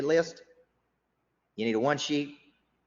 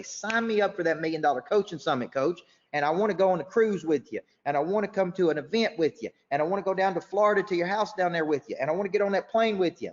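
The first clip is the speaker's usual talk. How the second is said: mock eager client, higher and louder, climbing; 7 semitones higher, 3 dB louder than usual. Coach voicing clients begging to sign up, excitedly. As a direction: play the hooked client piling on wishes.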